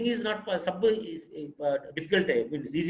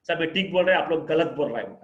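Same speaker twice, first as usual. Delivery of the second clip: argumentative; 4 dB louder than usual. Shown as a demonstration. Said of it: "ऐसा नहीं बात करना".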